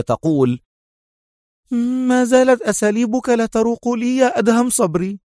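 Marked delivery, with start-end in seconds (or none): 2.1-5.2 angry. A narrator's reading. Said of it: "مطت شفتيها في غضب".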